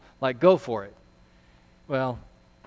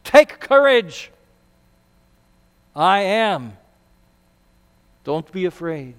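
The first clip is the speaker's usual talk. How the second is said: speaking with authority. Acted. Jesus calling to frightened disciples on the lake, with authority. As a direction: proclaim it like a commanding Lord. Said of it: "So Jesus is speaking with authority".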